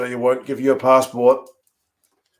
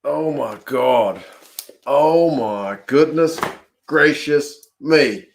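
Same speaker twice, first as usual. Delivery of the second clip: slow, drawn-out disbelief; awestruck; slower than usual. Real, not acted. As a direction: let the amazement sink in slowly. Stunned after the match-winning kick.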